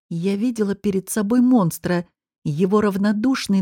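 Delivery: ordinary delivery, nothing marked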